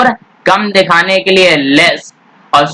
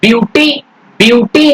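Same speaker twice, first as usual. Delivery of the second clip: teacher emphasis; 4 semitones higher than usual. Shown as a demonstration. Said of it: "तो ये word break भी हो रहा".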